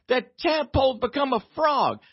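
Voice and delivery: put-on high, thrilled child announcing news; excited little girl. Daughter telling dad the tadpole changed, high and thrilled. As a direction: imitate the daughter blurting the big reveal. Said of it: "and she's so excited".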